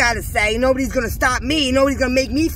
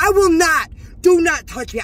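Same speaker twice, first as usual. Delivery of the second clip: firm retold refusal, louder and higher; defiant refusal; 4 semitones higher, 3 dB louder than usual. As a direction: refuse forcefully, hitting each word. Retold refusal while being escorted out.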